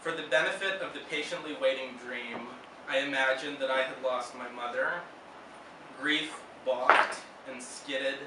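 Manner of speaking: deliberate recital, long pauses between lines; poetry reading. Real, not acted. Poet reading about losing his mother, measured recital. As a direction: read it line by line, restrained. Reads a second poem aloud.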